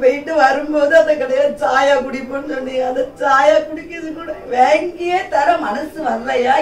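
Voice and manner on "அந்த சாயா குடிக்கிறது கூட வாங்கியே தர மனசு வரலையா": slow, crying reproach; wife tearfully reproaching husband over a cup of tea; tearful complaint. Acted. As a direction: let the tears break through, slowly.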